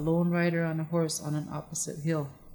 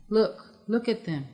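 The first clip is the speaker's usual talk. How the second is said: higher and louder, eager call to look; excited pointing out; 5 semitones higher, 4 dB louder, slower than usual. A narrator's reading. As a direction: proudly show the friends the vast herd. Crane proudly points at the herd.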